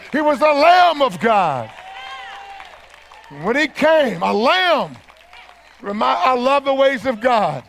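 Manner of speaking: full-voiced, driving sermon delivery; fervent preaching. Preacher proclaims resurrection victory to the church, fervent preaching. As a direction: preach victory to the crowd, punching key words.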